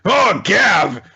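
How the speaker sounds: high, loud excited cry. Retold or imitated. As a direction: gush about Gav. Excited exclamation about Gav.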